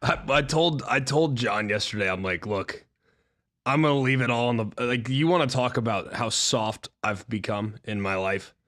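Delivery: real hoarse voice pushed out; hoarse, losing his voice. Real, not acted. Host explains his voice to his co-hosts, hoarse and straining. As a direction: force the words through a shot voice.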